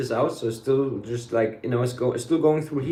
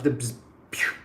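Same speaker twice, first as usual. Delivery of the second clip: buzz and pew noise; 4 dB quieter than usual. Retold or imitated. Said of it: "the mind couldn't comprehend".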